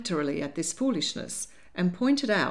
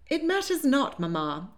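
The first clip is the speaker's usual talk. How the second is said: conciliatory; 7 semitones higher than usual. A narrator's reading. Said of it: "she said in a conciliatory tone".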